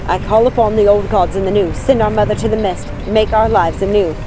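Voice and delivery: loud, chanted spell; incantation. Acted. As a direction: intone the spell with all her soul. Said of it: "kept reciting the words".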